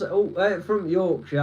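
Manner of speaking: Yorkshire accent put on to take the piss; playful Yorkshire impression; mock Yorkshire. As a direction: imitate broad Yorkshire locals. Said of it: "they're all speaking like that".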